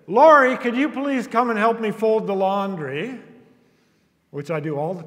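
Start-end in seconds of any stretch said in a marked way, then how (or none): 0.1-0.6 loud, high call of the name; yelling a name. Shown as a demonstration. Calling Lori upstairs to help, loud yell. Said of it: "When I yell upstairs". 0.6-3.2 loud call up the stairs, voice raised; yelling upstairs. Shown as a demonstration. Husband yelling upstairs to Lori for laundry help. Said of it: "When I yell upstairs and say".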